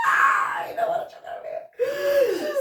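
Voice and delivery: high-pitched laughing shout. Real, not acted. Repeating her own joke to her friend, shrieking with laughter. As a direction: squeal it out through real laughter.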